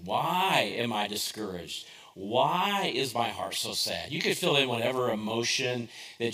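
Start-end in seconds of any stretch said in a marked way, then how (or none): 0.1-4.1 slow, lightly sad psalm words. Acted. Pastor voicing the psalmist's lament, slow and understated. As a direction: ask it slowly with a hint of sorrow. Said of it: "the words are so".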